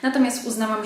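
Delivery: speaking through a blocked nose; congested, a bit nasal from a cold; stuffy nose. Real, not acted. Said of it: "Jestem też delikatnie zakatarzona".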